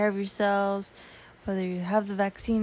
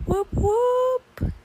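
excited; 5 semitones higher, much slower than usual. Real, not acted. Podcast intro greeting.

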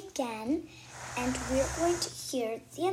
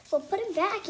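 yell; 8 semitones higher, 4 dB louder than usual. Acted. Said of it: "yells Mary".

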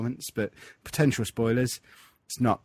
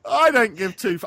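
quoting the catchphrase; 11 semitones higher, 10 dB louder than usual. Retold or imitated. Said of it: "I'm getting that as a t-shirt".

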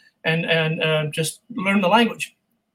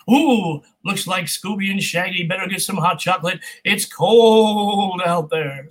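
lightly voiced spooky game announcer, slowing at the end; a hint of a playful holiday announcer. Shown as a demonstration. Voice actor recalling his Scooby game announcer line, lightly voiced. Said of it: "I was the game announcer going".

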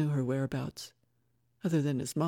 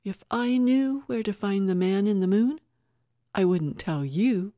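firm, louder defiant refusal; steely refusal to an intruder; steady as steel; 4 semitones higher, 6 dB louder than usual. A narrator's reading. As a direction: stand your ground, voice steady and raised. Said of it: "Dimple's reply was steady as steel".

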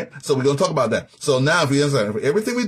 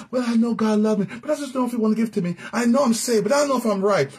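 higher, wavering voice of a doubter; mock doubter, voice raised high; doubting believer; 7 semitones higher, faster than usual. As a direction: play the unsure believer, pitched up. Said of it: "a double-minded person".

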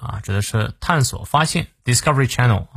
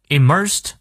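"Immersed" said higher and deliberately; stress as demonstrated; 4 semitones higher than usual. Shown as a demonstration. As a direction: carefully model "Immersed" with a raised pitch. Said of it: "重音在前".

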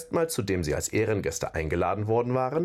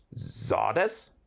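Sordes entsetzt, mit steigender Frage. Acted. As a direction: Sordes fassungslos zurückfragen. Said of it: "wiederholte Bulgur entsetzt". (entsetzte Rückfrage)

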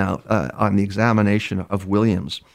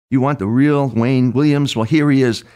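mild mock yell; 4 semitones higher, 4 dB louder than usual. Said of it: "starts screaming and yelling".

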